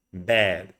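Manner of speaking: "bed" with an open, lax vowel; open flattened E. Shown as a demonstration. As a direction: model "bed" with a flattened tongue. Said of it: "I open my mouth and I flatten my tongue".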